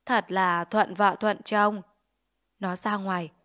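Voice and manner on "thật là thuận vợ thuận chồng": slow, pleased, drawn-out gloat; gleeful gloat. Acted. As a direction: savour the cruel joke slowly. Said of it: "nó vui vẻ đứng dậy".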